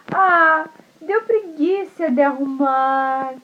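slow, drawn-out lazy excuse; lazy disguised wolf. Acted. Wolf as grandma excusing the mess, slow and lazy. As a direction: sigh out the excuse slowly. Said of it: "o lobo falou assim".

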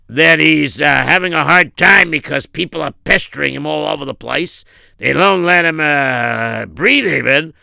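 loud, forceful job pitch; bodyguard. Acted. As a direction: offer your services like a tough bodyguard. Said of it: "You used my voice".

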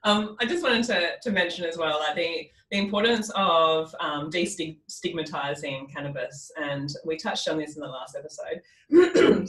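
husky, sleepy just-woke-up voice; morning voice. Real, not acted. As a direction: still croaky from waking up. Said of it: "I've still got my morning voice".

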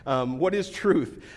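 slow, evasive politician dodge; mock politician. Pastor joking Pilate sounds like a Congress candidate, slow mock politician. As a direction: drawl it like a slick candidate dodging a question. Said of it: "he could be running for Congress".

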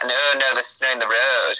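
flat Yorkshire Leeds vowels; light Yorkshire Leeds accent. Shown as a demonstration. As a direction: say it like someone from Leeds. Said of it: "people in Leeds are more like that".

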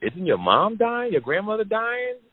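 high-pitched stunned disbelief; confused disbelief. Retold or imitated. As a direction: ask it like the ground just shifted. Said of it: "I said".

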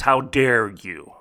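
slow, offended "How dare you?"; mock indignant. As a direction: imitate her outraged retort, drawn out. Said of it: "The, the tone of this person's response".

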